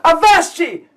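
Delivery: high, loud pirate-play shout; sudden high battle cry; playacting girl's cry. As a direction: belt it out like a child playing pirates. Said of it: "she abruptly stops with a".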